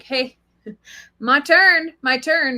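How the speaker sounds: high, loud eager "my turn"; eager horse voice. Retold or imitated. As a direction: voice the horse begging to be next. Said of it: "he knows, like".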